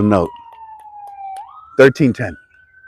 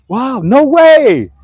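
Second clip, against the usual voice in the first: high, loud and slow wow; amazed disbelief; 12 semitones higher, 6 dB louder, much slower than usual. Pretend. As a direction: stretch out the astonishment. Acted onlooker amazed at cockroach.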